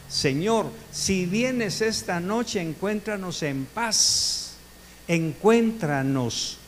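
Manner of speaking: slow, pleading bedtime prayer. Acted. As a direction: pray it slowly, drawing out each word. (oración lenta y suplicante)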